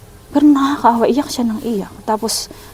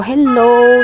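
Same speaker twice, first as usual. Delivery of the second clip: put-on bright, louder hello to a crying toddler; greeting a child; 2 semitones higher, 6 dB louder than usual. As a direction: call out hello gently to coax the child. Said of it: "sabi ko sa bata". (bumabati sa umiiyak na bata, malambing na hello)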